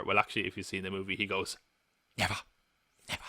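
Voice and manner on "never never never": odd Caine reading. Retold or imitated. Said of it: "He says it so really".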